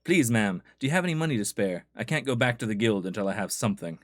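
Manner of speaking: lightly acted plea for money; pleading beggar. Beggar asks ma'am for money, lightly pleading. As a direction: beg politely, as a needy guild worker. Voices begging game character.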